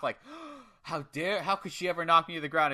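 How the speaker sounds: imitating an obnoxiously shocked wrestler; gasp, then mildly affronted disbelief; hammed-up gasp of outrage, lightly voiced; mock shock. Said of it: "he looks obnoxiously, like, s-, surprised, shocked".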